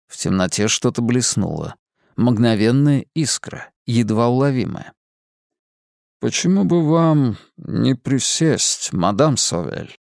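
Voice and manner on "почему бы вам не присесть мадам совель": mysterious man. Acted. Lazarus invites her.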